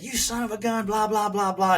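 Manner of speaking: retelling how he cussed out Dale; mock angry outburst. Retold angry confrontation with Dale.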